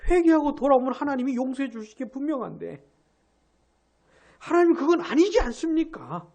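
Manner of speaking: a touch of an indignant Jonah; Jonah protesting. Retold or imitated. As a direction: voice Jonah's complaint to God. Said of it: "요나가 그게 아니라는".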